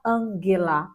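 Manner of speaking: Angela with a hard G, Ga not Ja; German hard G in Angela. Shown as a demonstration. Teacher showing her students Angela with a hard G. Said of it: "já que o G nunca tem som de J".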